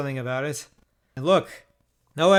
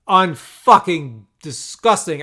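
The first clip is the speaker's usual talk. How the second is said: disgusted; 5 dB louder, slower than usual. Real, not acted. Bad beat just revealed.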